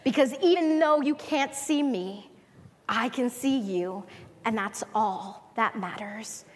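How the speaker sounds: lightly voiced God, hushed and tender; a preacher voicing God softly to the doubter; gentle voice of God. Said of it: "God says".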